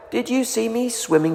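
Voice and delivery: high, eager little voice; little Roo squeaking excitedly. A narrator's reading. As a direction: bounce with excitement. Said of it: "squeaked Roo excitedly".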